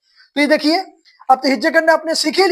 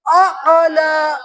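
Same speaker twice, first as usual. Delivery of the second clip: calling for class chorus; 2 semitones higher than usual. Shown as a demonstration. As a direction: lead the class to repeat. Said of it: "اس کو پڑھیں گے اعلیٰ".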